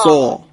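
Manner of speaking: سا as a full, dark Arabic sad; heavy emphatic s. Shown as a demonstration. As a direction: round the mouth and say سا heavily. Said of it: "بتونید درشتی اینو یه ذره بیشتر بکنید". («سا» درشت و پرحجم)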